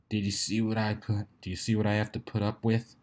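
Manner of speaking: exasperated aside. A narrator's reading. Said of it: "a face that said".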